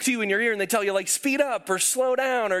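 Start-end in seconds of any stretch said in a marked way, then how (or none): 1.1-1.7 a lightly voiced running coach calling out; app coach voice. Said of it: "it's like a running coach". 1.8-2.5 a lightly voiced running coach calling out; app coach voice. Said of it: "it's like a running coach".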